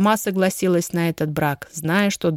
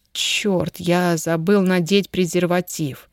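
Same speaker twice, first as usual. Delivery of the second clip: usual speaking voice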